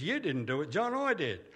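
a retold boom, rising high and loud on "I did"; booming voice of God. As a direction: imitate a big voice booming out. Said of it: "this big voice boomed out".

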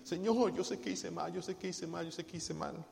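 soft, fading plea; tearful confession. Retold or imitated. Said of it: "así".

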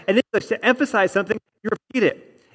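lifted restatement with "repeat" stressed; repeating for emphasis. Shown as a demonstration. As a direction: echo the phrase, landing on "repeat". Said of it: "See what I did there?".

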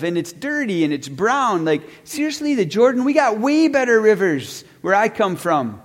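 scornful complaint with a mild mock huff; retold indignation. Naaman scorning the Jordan River, retold with mildly indignant disbelief. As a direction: play him put out and dismissive, rising on the disbelief. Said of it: "He's furious. He's upset".

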